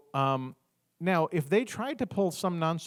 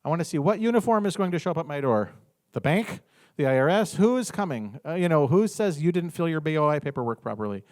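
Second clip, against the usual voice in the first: loud defiant challenge; 1 defiant dare; 2 semitones higher, 5 dB louder than usual. Retold or imitated. Taunting the government to come arrest her, loud and defiant. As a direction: dare them to come get you. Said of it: "I'm like".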